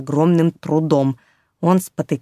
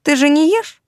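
cheeky kitten voice; 9 semitones higher than usual. Acted. Kitten retorts to bear.

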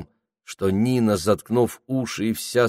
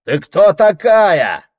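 slow, high, loud challenge; hostile shout; 11 semitones higher, 9 dB louder, slower than usual. A narrator's reading. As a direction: bark at the stranger. Hostile barracks shouting at lady.

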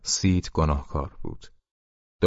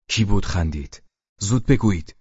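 building to a louder, higher demand; angry shout; 3 semitones higher, 4 dB louder than usual. Acted. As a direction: yell it at the silent crew. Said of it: "ولی او باز فریاد زد".

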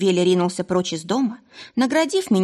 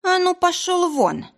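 barked order; 12 semitones higher than usual. Acted. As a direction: bark like a strict head doctor. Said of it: "рявкнула я с интонациями Елены Аркадьевны".

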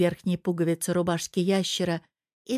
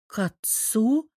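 slow, higher echo in disbelief; disbelieving; 4 semitones higher, slower than usual. A narrator's reading. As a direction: repeat it as if you can't believe it. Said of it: "словно не веря его словам".

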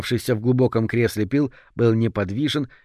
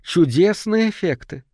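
strained croak of admiration; croaking praise; 7 semitones higher than usual. A narrator's reading. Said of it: "вышло лишь болезненное карканье".

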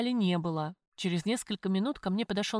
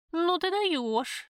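amazed; 9 semitones higher, much slower than usual. A narrator's reading. Friend amazed at confession.

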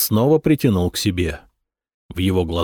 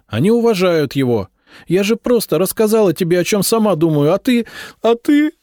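high, loud, pained cry of a frightened wife; frightened pleading wife; 10 semitones higher, 4 dB louder than usual. A narrator's reading. Wife hurt by her husband, pleading high and near tears. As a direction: plead through pain as tears come. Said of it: "И она заплакала".

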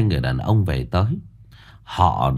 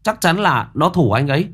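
much higher, fast, eager accusation; young nephew accusing; 10 semitones higher than usual. Acted. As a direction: insist hotly it was him. Young Thiết accuses Thành.

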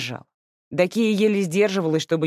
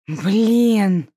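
loud drawn-out groan of annoyance; 4 semitones higher, 6 dB louder than usual. Acted. Sister groans when questioned about the money. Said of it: "простонала Анюта".

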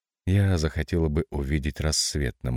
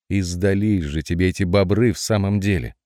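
exasperated exclamation; 3 semitones higher, 4 dB louder than usual. Acted. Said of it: "В сердцах воскликнула птица".

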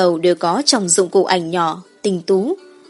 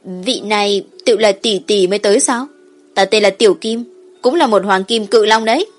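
put-on dragon child voice; 3 dB louder than usual. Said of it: "một hài tử lớn chừng bảy tám tuổi".

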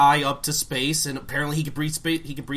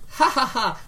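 hammy laugh; 12 semitones higher, 5 dB louder than usual. Retold or imitated. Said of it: "the transition from".

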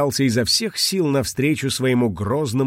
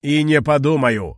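louder, annoyed refusal; a touch of a sulky dragon yelling; irritated shout; 3 semitones higher, 4 dB louder than usual. Acted. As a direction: snap back in defiance. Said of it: "раздражённо закричал кулон".

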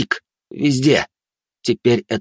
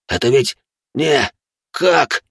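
shocked disbelief; 4 semitones higher, slower than usual. A narrator's reading. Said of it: "пробормотал он, и его дыхание ускорилось".

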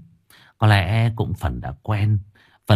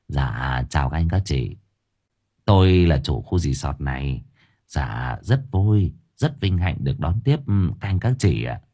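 awkward resort owner; 6 semitones lower than usual. Acted. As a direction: greet the guests with a forced smile. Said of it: "nở nụ cười gượng gạo".

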